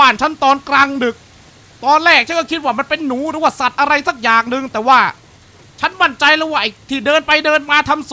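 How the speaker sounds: lightly voiced irritated uncle; annoyed old homeowner. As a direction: read it like a fed-up old man. Reads diary in uncle's voice.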